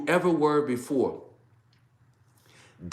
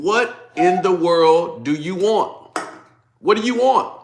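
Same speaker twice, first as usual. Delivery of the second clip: slow, then louder and higher; exasperated demand; 5 semitones higher, 4 dB louder, slower than usual. Retold or imitated. People pressing David, slow rising exasperated cry. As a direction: build to a fed-up cry.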